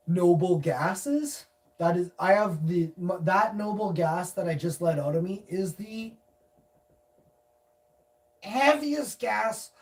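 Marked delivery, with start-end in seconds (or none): 0.1-1.5 slow emphasis. Acted. Mock-scientific boast. 8.4-9.7 heaviest gas stretched slow; drawn out. Acted. Mock-scientific boast.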